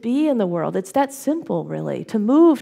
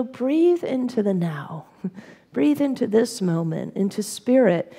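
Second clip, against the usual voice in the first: slowed, soothing breathe-in cue; slow calm instruction; 2 semitones higher than usual. Shown as a demonstration. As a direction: let it out slowly and calmly, like guiding a breath. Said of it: "you just say, you know".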